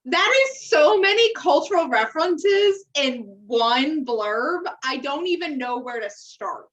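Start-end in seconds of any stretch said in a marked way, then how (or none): 0.1-4.6 a touch higher and slower, incredulous; amused disbelief. Real, not acted. Reacting to the over-the-top celebrity blurb with amused disbelief. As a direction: stretch it out in mock disbelief.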